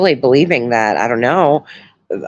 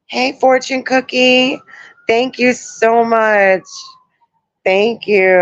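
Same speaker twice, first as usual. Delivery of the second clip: high, slow, sing-song hello to a viewer; light up as you greet a fan by name; sweet greeting; 6 semitones higher, slower than usual. Real, not acted.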